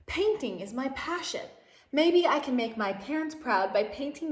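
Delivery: lively storybook reading voice with lifted character lines; animated read-aloud for young listeners; reading to children. A narrator's reading. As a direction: read it like a picture book to a class.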